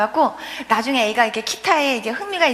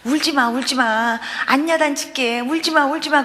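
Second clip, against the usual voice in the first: put-on soothing a child. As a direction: retell gently hushing a crying child. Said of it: "그러고 달래야지 그 아이를".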